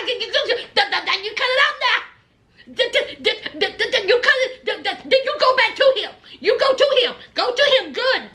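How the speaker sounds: mock stammering husband, a touch of a laugh; stuttering. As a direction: sputter it out, rattled to the core. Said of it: "He turned into Gino the stutter".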